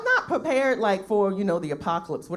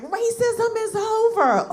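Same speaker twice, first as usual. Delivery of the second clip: mocking quote; 12 semitones higher, 5 dB louder, much slower than usual. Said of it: "They was like".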